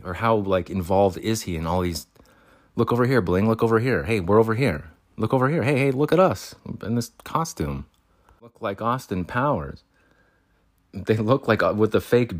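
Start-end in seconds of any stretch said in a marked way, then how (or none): 2.8-9.8 mocking call. Mocking the people following him.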